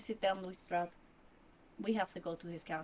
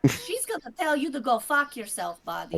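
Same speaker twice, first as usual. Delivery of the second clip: angry; 7 semitones higher, 9 dB louder than usual. Real, not acted. Heated argument with Bobby.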